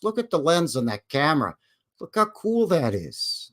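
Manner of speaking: mock covering pointer. Shown as a demonstration. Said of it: "I don't do this".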